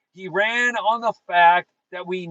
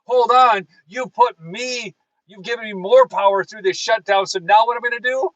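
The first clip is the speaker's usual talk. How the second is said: quoting Trump; 3 semitones higher, 5 dB louder than usual. Retold or imitated. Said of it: "In fact, he says".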